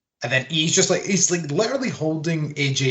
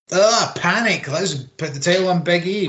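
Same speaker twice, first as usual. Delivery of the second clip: higher, louder mock-panicked outburst; 5 semitones higher, 3 dB louder than usual. Host mimicking the bookers' hasty title decision, mock panic. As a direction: imitate someone flapping in a panic.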